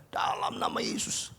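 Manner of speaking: starts hushed, swells to a loud declaration; preacher praying over his own pain, building to a loud declaration; fervent prayer. Retold or imitated. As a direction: pray it rising into a loud commanding claim. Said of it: "Saya tumpangin tangannya".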